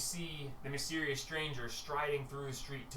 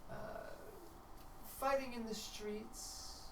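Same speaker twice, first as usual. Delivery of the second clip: Tia's high voice; 5 semitones higher, 5 dB quieter than usual. Acted. Tia answering the Justicer, high and hesitant. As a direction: stall in a high silly voice.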